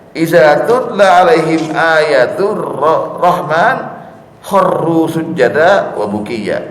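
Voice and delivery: slow, measured recitation of Arabic verse; Quran recitation. Acted. Preacher reciting the verse to his congregation, slow and solemn. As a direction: intone the verse slowly and reverently.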